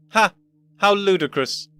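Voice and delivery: one loud bark of a laugh, scoffing; explosive laugh. Acted. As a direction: scoff in disbelief. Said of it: "a rare single explosive laugh".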